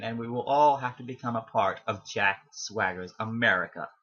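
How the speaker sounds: a light put-on American accent. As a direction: slip briefly into an American accent, half-joking. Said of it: "I did just put on an accent there".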